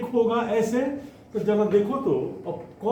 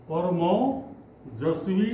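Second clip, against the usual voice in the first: परमोजस्वी stretched out very slowly; slower dictation; much slower than usual. Shown as a demonstration. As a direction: repeat परमोजस्वी, drawing out each syllable. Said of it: "teacher repeats word slower". (परमोजस्वी बहुत धीरे खींचकर)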